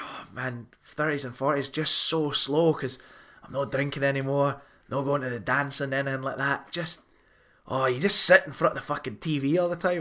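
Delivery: imitating a friend in a thicker Scottish accent. Quoting friend Archie to a podcast cohost, thick Scottish accent. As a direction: lay the Scottish accent on thick, playful retelling. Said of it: "that thicker Scotch accent that you've given to them".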